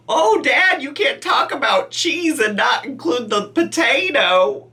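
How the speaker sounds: high, playful voice for a pet; pet's voice. Acted. Pet begging Dad to include the potato, high playful voice. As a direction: speak for the pet in high mock complaint. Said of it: "look who wants to say hi. He said".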